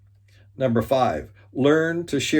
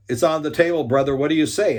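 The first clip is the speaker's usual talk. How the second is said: loud urging; 5 semitones higher, 5 dB louder, faster than usual. Retold or imitated. Urging rival before the group.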